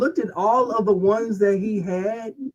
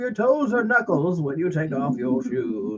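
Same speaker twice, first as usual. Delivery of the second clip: put-on cranky old man curse; grumpy old man muttering. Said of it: "the old man voice".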